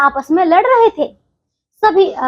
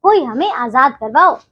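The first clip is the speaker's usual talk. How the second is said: mock shout for help. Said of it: "वो इस प्रकार से चिल्लाते हैं".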